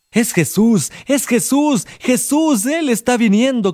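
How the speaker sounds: excited. A narrator's reading. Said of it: "contestó alguien".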